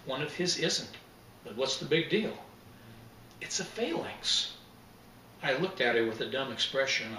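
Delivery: measured reading of a mystery scene; story narration. A narrator's reading. Author reading his mystery scene to the interviewer, lightly voiced narration. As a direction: read the scene like an author at a book event.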